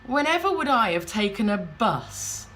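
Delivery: a hint of lofty disbelief at the very idea; disdainful husband. Husband looks up from phone to answer wife, mildly disdainful. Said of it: "looks up from his phone and goes".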